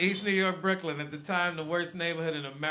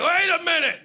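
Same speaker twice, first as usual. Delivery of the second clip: high startled wait a minute, a bit louder; mock double take; 12 semitones higher, 8 dB louder than usual. A neighbor startled to find a black man in the bodega, mock startled. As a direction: play the neighbor doing a sudden double take. Neighbors shocked at new resident.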